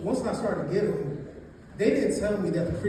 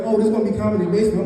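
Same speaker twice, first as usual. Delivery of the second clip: white people voice; 6 dB louder, much faster than usual. Retold or imitated. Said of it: "they was like".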